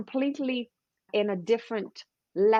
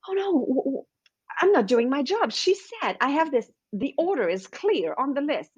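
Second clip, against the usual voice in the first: high, flustered inner voice in a panic; panicked personal assistant; 3 semitones higher than usual. Pretend. Inner assistant panicking over a client getting fit, high and flustered. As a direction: play the frantic little assistant in her head. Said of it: "your personal assistant is gonna go in panic mode and say".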